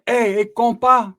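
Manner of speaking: loud, slow call down the tier; a mild mock holler. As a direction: holler the greeting from upstairs. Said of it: "Some dude hollers down to him".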